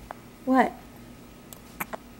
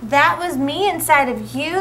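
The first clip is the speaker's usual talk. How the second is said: wondering; 4 semitones higher than usual. Acted. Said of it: "asked in wonder".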